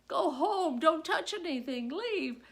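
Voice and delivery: frantic dismissal; teacher frazzled as date watches; urgent orders. Retold or imitated. Same orders repeated in story.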